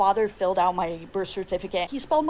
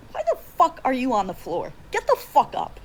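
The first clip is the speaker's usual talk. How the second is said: mock angry yell; 3 semitones higher than usual. Mother yelling at fainted father.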